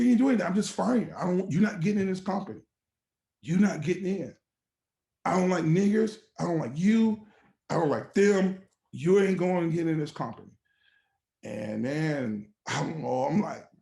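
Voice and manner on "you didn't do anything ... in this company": raised, higher voice, firm retold dismissal; mock hard-line boss, voice lifted; angry boss firing someone. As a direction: imitate a boss angrily refusing. Boss firing him in retold quarrel.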